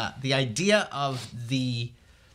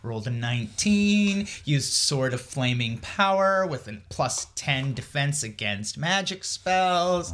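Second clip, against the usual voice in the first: dungeon master; 3 semitones higher, slower than usual. Pretend. Host riffs on the scribe as a dungeon master, hammed-up. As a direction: announce the stats like a game master. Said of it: "he's his dungeon master".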